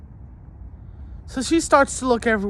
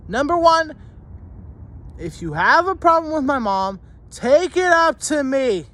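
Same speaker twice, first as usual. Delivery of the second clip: screaming; 6 semitones higher than usual. Real, not acted. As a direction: lay down the law at full volume. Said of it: "for screaming".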